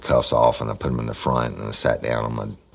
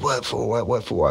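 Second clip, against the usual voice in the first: pitched way up, playing the bewildered suspect; high whiny protest; 12 semitones higher than usual. Teller mimics the suspect's protest, high and whiny. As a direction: squeak it out like a cornered man.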